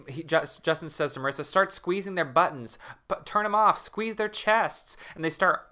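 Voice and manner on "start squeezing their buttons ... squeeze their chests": urgent command. Retold or imitated.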